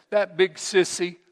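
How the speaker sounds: mock whimper. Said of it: "the little girl whimpered again".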